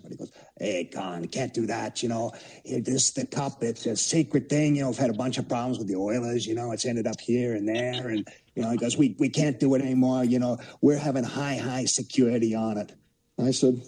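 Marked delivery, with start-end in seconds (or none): 0.6-8.7 put-on a light, hammy New York cop accent; imitating an old New York cop accent, badly. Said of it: "this is a bad accent". 9.0-12.9 put-on a light, hammy New York cop accent; imitating an old New York cop accent, badly. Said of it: "this is a bad accent".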